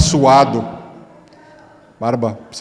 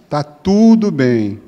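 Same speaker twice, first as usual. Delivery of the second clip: very slow, stretched-out mock reassurance; falsa calma ameaçadora; 4 dB louder, much slower than usual. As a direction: draw it out slowly as a veiled warning. Acting woman's ominous 'it's fine'. (tudo bem arrastado, de aviso)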